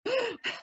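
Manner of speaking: high, quiet gasp; sharp little intake, holding back crying; tearful gasp. Real, not acted. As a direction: catch your breath against tears. Reader fighting back tears mid-reading.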